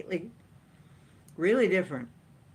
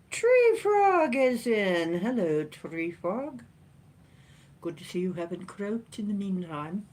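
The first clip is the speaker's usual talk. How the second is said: silly put-on voice. Host greeting viewer Tree Frog, silly put-on voice. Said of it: "I don't know why I'm talking like that".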